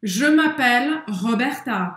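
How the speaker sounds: slow, clear "Je m'appelle Roberta"; model for repeating. Shown as a demonstration. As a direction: say it slowly for learners to copy. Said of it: "é sua vez de treinar". (frase-modelo lenta para o aluno repetir)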